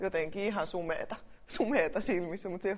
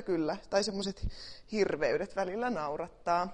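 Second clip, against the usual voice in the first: normal talking voice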